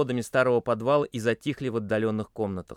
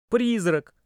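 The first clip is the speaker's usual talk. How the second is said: much higher scared cry; frightened; 11 semitones higher, 5 dB louder than usual. A narrator's reading. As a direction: gasp it out in fear. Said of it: "испуганно произнёс".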